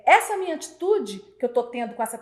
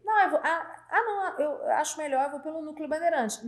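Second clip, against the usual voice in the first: higher-pitched mock excuse; imitated objection; 5 semitones higher than usual. Employee preferring another route to the boss's, higher-pitched objection. Funcionário contrariando a ordem.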